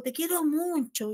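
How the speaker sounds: high, tender and affectionate; tender to the dog. Shown as a demonstration. Teacher showing how she tells her dog she loves him, tenderly. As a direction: coo it lovingly to your pet. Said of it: "cambio mi tono de voz".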